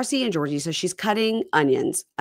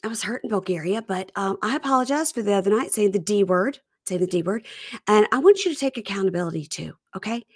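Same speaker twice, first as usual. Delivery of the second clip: mock wife; 4 semitones higher than usual. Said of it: "So she says".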